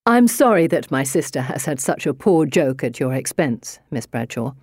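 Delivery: spoken through gritted teeth; tight-jawed warning through teeth. Acted. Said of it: "His words to me through gritted teeth".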